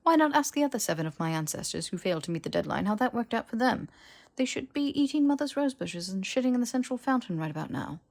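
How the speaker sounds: sarcastic mockery. Malfoy mocking Harry's hope.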